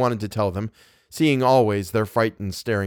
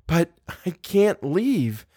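high, slow, drawn-out protest; amused protest; 8 semitones higher, much slower than usual. A narrator's reading. Guest refusing to be sent away, amused protest. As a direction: protest as if it were absurdly impossible. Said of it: "laughing still because it was so perfectly impossible".

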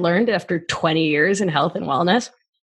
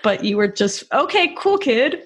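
puzzled parent; 4 semitones higher than usual. Retold or imitated. Parent reacting to kid.

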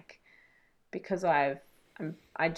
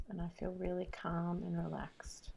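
whispering; 5 dB quieter than usual. Real, not acted. Repeating tapping phrase softly.

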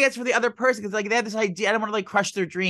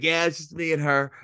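lightly put-on straight-guy voice. Retelling answer to store guy, lightly faked straight voice. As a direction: casually pass as straight, imitating yourself. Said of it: "your straight voice".

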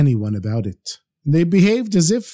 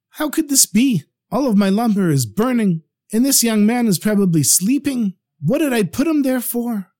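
high-pitched dismayed questioning; alarmed; 7 semitones higher than usual. A narrator's reading. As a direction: fret in a raised, worried voice. Merchant sees his lumber burning.

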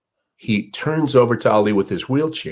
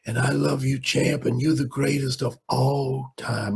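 put-on frail old man; 3 semitones higher than usual. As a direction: breathe it out slowly, a lightly voiced frail old man. Old man's tender tribute.

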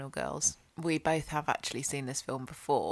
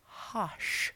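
playful hushed whisper; 4 semitones higher, 4 dB quieter than usual. Pretend. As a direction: breathe the title like a secret. Whispering the film title Hush.

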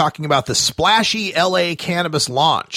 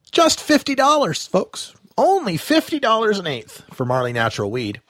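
mock-salesman sarcasm, pitched up then falling away; sarcastic; 5 semitones higher than usual. Real, not acted. Host sarcastically pitching overpriced weed to listeners. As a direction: sell the bargain with heavy irony. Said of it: "I'm being very sarcastic about that".

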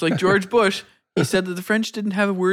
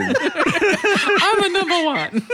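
mock Italian accent; 11 semitones higher, much slower than usual. Continuing Mario parody.

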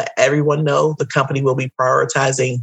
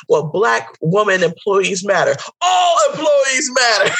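mock dismissive coworker; 7 semitones higher than usual. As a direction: sneer back the rebuttal. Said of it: "It's gonna be like".

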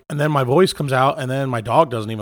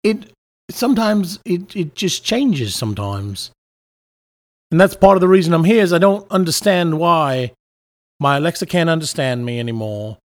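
wavering mock British accent; put-on British accent. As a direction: explain it in an unsteady British accent. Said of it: "Having a British accent when I'm not from that place".

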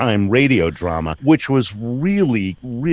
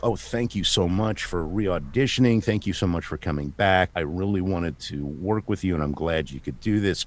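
softly spoken imitated director's thanks; quiet, appreciative greeting; grateful welcome; 2 semitones lower, 5 dB quieter than usual. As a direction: thank them gently and sincerely. Director gratefully welcomes actor back, retold.

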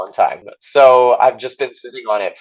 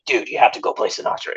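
whispered quote; faster than usual. Retold or imitated. Huey's quoted advice, whispered.

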